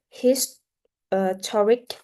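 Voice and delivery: "toric" stressed after a separated "his-"; second-syllable stress. Shown as a demonstration. Teacher shows stress moving before the ending, weight on "toric". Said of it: "the second syllable is straight".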